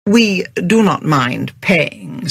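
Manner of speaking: stiff and slow; formal, restrained dignity. Acted. James to the angry owner, stiff. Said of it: "said James stiffly".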